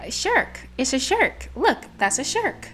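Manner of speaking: shirk said with er vowel, stubbornly; insisting on shirk. Retold or imitated. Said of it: "I'm just like".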